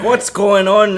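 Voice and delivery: a silly, squeaky, shouty Atlas. Retold or imitated. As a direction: play an eager, excited Atlas over the radio. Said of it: "He's like".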